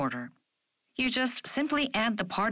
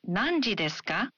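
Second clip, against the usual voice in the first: ka lifted at the end; rising question. Shown as a demonstration. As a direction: ask Nanji desu ka with a rise. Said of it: "add a rising intonation".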